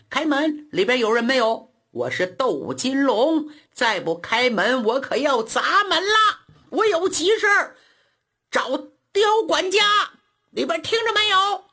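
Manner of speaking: a man hammering on a back gate, hollering for the steward; loud calling out. Acted. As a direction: yell through the gate, climbing to a high bellow. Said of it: "高门大嗓".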